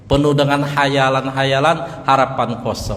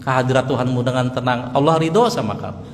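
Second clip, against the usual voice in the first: angel's gentle words; 2 semitones lower than usual. Retold or imitated. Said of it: "Sambil malaikat bilang".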